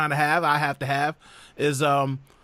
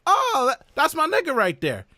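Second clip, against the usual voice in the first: friendly exclamation; 10 semitones higher than usual. Retold or imitated. Acts out friendly use between friends.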